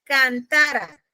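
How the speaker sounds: cantara drawn out, stressed on TA, final syllable falling away. Shown as a demonstration. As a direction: lean on the middle of cantara. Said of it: "si no dijera". (cantara con fuerza en la penúltima sílaba)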